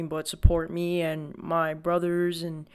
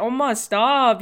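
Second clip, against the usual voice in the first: mock protest; 4 semitones higher, 7 dB louder, slower than usual. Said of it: "And I was like".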